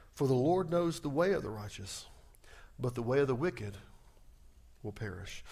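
solemn scripture reading. Shown as a demonstration. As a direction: read scripture with weight. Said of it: "Look at verse five and six".

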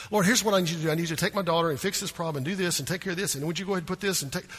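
fast, pushy list of orders; demanding rush. Shown as a demonstration. Woman bosses Jesus in prayer, fast and demanding. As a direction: rattle off demands at God. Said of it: "no, no, no. Bring it down".

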